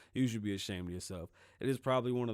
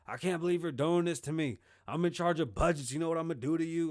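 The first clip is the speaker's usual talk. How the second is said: mock angry rep; 6 semitones higher, 4 dB louder than usual. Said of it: "he was so mad".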